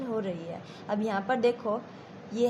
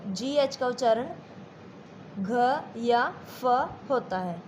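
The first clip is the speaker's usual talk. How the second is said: slow repeat. Shown as a demonstration. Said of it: "दोबारा से देखो".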